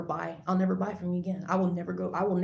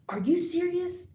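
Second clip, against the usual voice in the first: outraged disbelief; 11 semitones higher than usual. Real, not acted.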